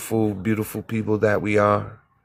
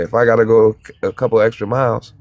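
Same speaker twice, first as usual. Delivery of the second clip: emphatic; 6 dB louder, faster than usual. Shown as a demonstration. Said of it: "I'm landing right here".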